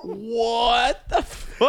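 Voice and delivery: very slow, drawn out and laughing; laughing disbelief. Real, not acted. Reacting to the hanging story with laughter. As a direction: stretch it out in shocked laughter.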